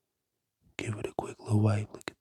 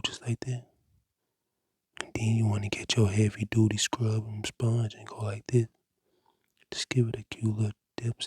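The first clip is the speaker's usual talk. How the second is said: ASMR whisper. Acted. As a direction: breathe the words like an ASMR cleaning video. Whispered ASMR cleaning tutorial.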